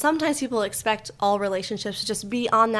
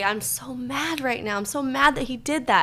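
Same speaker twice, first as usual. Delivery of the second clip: calm naming of anger; 4 semitones higher than usual. Shown as a demonstration. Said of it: "You could say".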